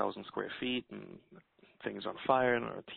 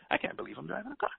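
disbelief; 9 semitones higher, faster than usual. Retold or imitated. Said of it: "shaking my head going".

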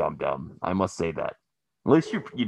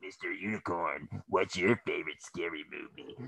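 Scream Guy voice; 3 semitones lower, 11 dB quieter than usual. Acted. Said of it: "Fuck you, Scream Guy".

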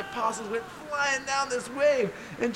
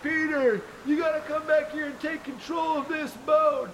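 urgent call; 4 semitones higher than usual. Acted. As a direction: shout the order over the noise. Jesus calls Peter to steer.

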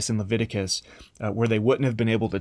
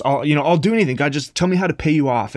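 desperate plea; 4 semitones higher, 5 dB louder, faster than usual. Acted. Desperate worshipper to God.

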